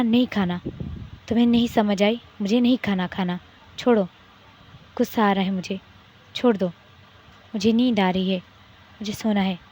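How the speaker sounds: a wife yelling she won't eat; angry refusal. Acted. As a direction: push him away with your voice. Wife refuses food, fighting back.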